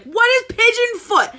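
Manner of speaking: high, exasperated bewilderment; baffled outburst. Retold or imitated. Baffled student reacting to a yoga pose, exasperated. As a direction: blurt it out in baffled disbelief.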